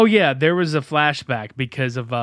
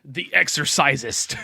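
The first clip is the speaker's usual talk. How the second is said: movie quote. Retold or imitated. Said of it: "Remember that shit from Stay Tuned?".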